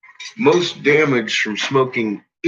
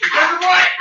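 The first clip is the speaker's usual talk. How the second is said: much higher sing-song dog voice; pet talk; 13 semitones higher than usual. Acted. Owner cooing at his dogs in a much higher voice. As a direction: coo at the dogs way up high.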